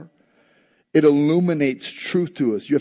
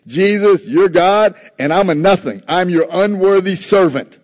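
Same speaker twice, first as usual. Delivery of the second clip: emphatic refusal; 4 dB louder than usual. Retold or imitated. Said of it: "emphatic in the Greek".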